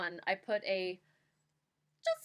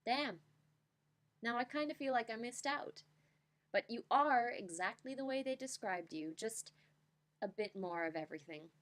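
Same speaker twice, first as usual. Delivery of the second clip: slam poetry reading. Shown as a demonstration. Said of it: "here I shall attempt my best slam poem reading".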